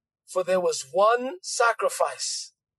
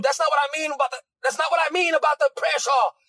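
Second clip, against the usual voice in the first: higher-pitched mock objection; defensive protest; 4 semitones higher, faster than usual. Preacher mimics someone defending their prayer shawl, defensive protest. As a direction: protest as if misunderstood.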